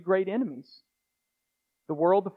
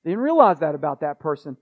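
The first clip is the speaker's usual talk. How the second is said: puzzled afterthought, louder at the start; hammed-up "huh" of belated realization; mock surprise; 2 semitones lower, 5 dB louder than usual. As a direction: act out being caught unawares. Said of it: "He's not thinking".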